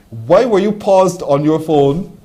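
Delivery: loud, high, slow questioning; slow mock-accusing challenge; playful interrogation. Real, not acted. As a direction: draw the question out loudly, demanding an answer.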